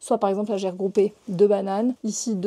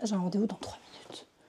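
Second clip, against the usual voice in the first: hushed, very quiet, breathy whisper under the breath; 10 dB quieter than usual. Speaking between appointments while setting up a computer, whispering. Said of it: "Je sais pas pourquoi je chuchote".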